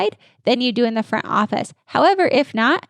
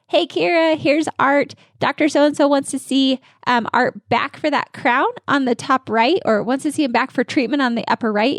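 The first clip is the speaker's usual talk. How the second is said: lightly raised, cheerful handoff to the front desk; a hint of a bright team-member voice; friendly handoff script; 3 semitones higher than usual. Shown as a demonstration. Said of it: "the back office team says exactly what the doctor said".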